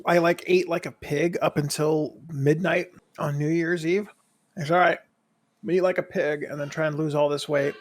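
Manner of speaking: talking while munching popcorn. Real, not acted. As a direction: mouth full of popcorn. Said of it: "as I'm eating popcorn right now".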